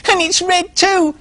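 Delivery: very high, slow mock-scary pig voice; little pig scaring the squirrel, slow and very high; spooky description. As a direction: spin the scary tale slowly. Pig finishing the scare.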